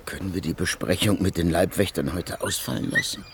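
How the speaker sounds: low, soft, worn-out request; tired and subdued at day's end; exhausted. Acted. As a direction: ask wearily, with little energy left. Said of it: "fühlte sich erschöpft".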